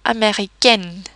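"américaine" in French, ending in a clear N; not nasalized. Shown as a demonstration. Teacher shows N before a vowel, "américaine" with N sounded. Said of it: "these combinations are not nasalized".

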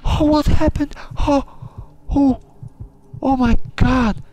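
high, loud, panicked shrieks; terrified yelps as the monster attacks; panicked screaming. Real, not acted. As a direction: scream in real terror. Slasher attack, real panic.

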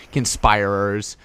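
"conspirers" drawn out slowly, kun-SPY-rers; groping for pronunciation. Real, not acted. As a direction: feel out "conspirers" with a long i. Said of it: "however you say the word".

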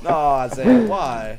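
loud exasperated call of Isaiah; frustrated yell. Real, not acted. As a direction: yell at him in disbelief. Yells at teammate.

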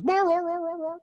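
high, loud yowling roar like a hurt dog; dog howling. Retold or imitated. Dog on the porch howls in pain, high loud yowl. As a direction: howl it way up high, like the dog sitting on a nail. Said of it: "dog in the corner just goes".

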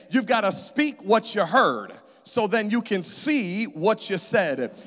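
repeated line, the ending what you said drawn out slowly. Shown as a demonstration. Preacher repeating to the congregation, slow and emphatic. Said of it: "I'm gonna say that again".

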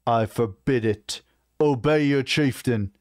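slow, emphatic order rising in pitch; stern command. Acted. Chieftain forbidding his war chief's attack, commanding. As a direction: lay down the law, word by word.

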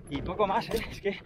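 out of breath, gasping between words; panting after the run; shallow breathing. Real, not acted. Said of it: "no puedo respirar".

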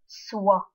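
Sw- said as a bare sound; isolated cluster sound. Shown as a demonstration. English teacher drills students on the cluster sw. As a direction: sound out Sw- on its own. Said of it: "Âm tiếp theo S đi với W".

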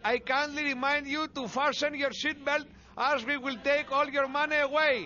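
flight attendant addressing the passengers; formal, measured in-flight announcer delivery; cabin announcement. Acted. New stewardess informing passengers of cutbacks, officious announcement.

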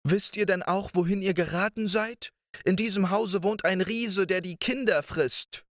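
put-on a worried woman cautioning the children; giant's wife. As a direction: speak high as the wife warning the lost boys.

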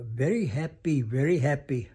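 VERY HAPPY said twice, each lifted and punched; emphasized like Swami. Retold or imitated. Retelling the caregiver's report of Louise's words, emphatic. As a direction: stress both halves of "Very happy, very happy". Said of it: "she even emphasized some of the words".

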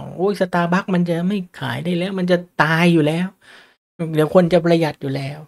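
lightly hammed-up worrier lamenting; mock panic. Imitating investors fretting that Starbucks is dying, in mock panic.

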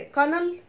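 "كانال" as KA-nal with light L; wrong canal. Shown as a demonstration. Teacher quoting the mistake, "كانال" with a light L. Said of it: "ما اسمهاش".

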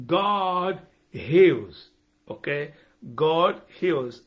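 God punched, heals falling away; stress on God. Real, not acted. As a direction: hit the word God, twice. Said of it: "That's my emphasis".

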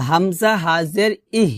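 ইহ with breath from the deep throat; careful demonstration of ইহ; clear deep-throat H. Shown as a demonstration. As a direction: sound the final হ of ইহ fully from low in the throat. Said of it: "হলকের শুরু থেকে".

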